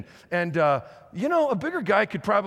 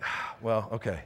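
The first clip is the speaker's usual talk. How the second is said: taken aback; 8 semitones lower, 6 dB quieter than usual. Retold or imitated. Dad taken aback by deep-voiced son.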